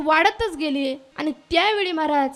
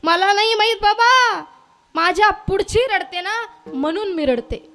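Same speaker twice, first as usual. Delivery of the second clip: mock wailing; 4 semitones higher, 5 dB louder than usual. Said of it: "तिनं इवळून इवळून सांगितलं".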